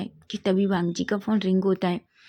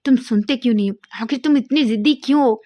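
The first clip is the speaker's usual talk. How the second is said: louder, higher angry demand; 4 semitones higher, 6 dB louder, faster than usual. A narrator's reading. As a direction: scold him hard, louder and higher. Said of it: "वांग जी गुस्सा हो जाता है".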